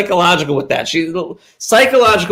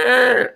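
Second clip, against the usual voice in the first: door creak imitation; 8 semitones higher than usual. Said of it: "she'd go".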